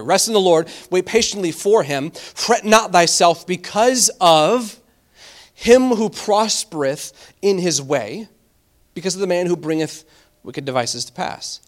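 slow, measured reading of a psalm verse; slow solemn scripture reading. Acted. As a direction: read it out slowly like holy writ. Reads the psalm aloud.

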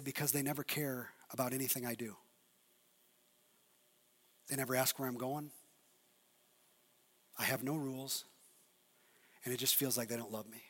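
low, hushed retelling of a sad confession; subdued hurt teen. Retold or imitated. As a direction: speak softly for a hurting boy, understated. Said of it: "he just started crying".

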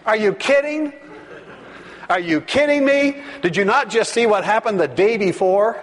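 high-pitched disbelief, easing down by the end; can't believe they would even ask that; incredulous. Acted. Preacher reacting to the crowd's demand for a sign, incredulous.

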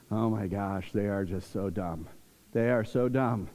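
low, soft muttered contempt; imitating a teen's private scorn; teenage disdain. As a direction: think it under your breath, unimpressed. Retold teenage thought about parents.

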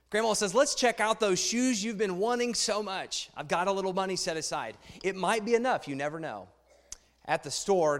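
put-on reading a children's book aloud to the congregation; story reading. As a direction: tell it like a picture book to a room.

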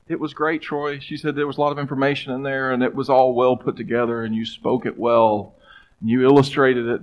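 a light imitation of a gentle wife. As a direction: kind praise before the hard question. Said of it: "she just very gently".

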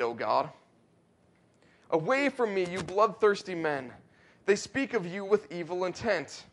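fervent scripture reading. Acted. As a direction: proclaim the verses like a preacher. Reads psalm aloud fervently.

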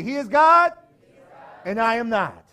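full-voiced shout of the refrain; leading the crowd in a shouted refrain. Shown as a demonstration. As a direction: shout it high and loud. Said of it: "Try it again right after me".

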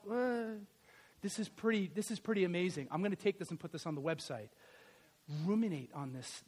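ordinary talk, nothing marked

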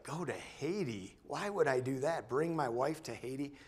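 retold disbelief, pitch swinging up on questions; incredulous questioning. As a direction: balk at the idea, mock-astonished. Acts out his shocked reluctance.

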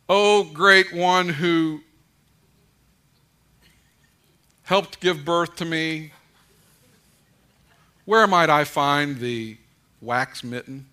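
slow, loud, grandly pompous address to dad; mock formal address. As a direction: ham it up like addressing royalty. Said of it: "I don't talk to him like that".

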